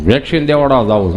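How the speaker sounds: low mock-plodding friend; imitating friend. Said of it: "કોવિડમાં મારી પાસે આવીને મને કહે કે".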